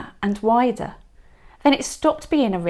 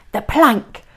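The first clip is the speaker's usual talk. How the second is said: louder, higher pirate yell; 5 semitones higher, 7 dB louder than usual. A narrator's reading. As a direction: chant it out eagerly. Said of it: "yelled Ben Buckle and Percy Patch".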